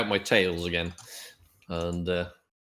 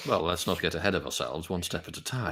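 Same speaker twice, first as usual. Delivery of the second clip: low, quietly measured reply; formal adventurer; 4 semitones lower, 5 dB quieter than usual. Acted. Adventurer reins in the stranger, low and measured. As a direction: settle him in a lowered voice. Player calms stranger in character.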